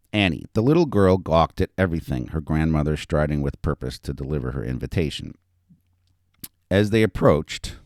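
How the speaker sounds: animated reading of a story; story narration. A narrator's reading. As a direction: read it out to an audience with lively emphasis. Author reads own story aloud.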